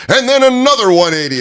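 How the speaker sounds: high loud raspy cry; Macho Man impression. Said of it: "And he goes".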